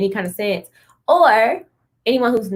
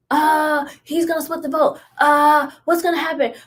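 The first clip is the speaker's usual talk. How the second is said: mock fretting; 3 semitones higher than usual. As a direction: imitate people fussing, pitched up. Mimics people fretting over the vote.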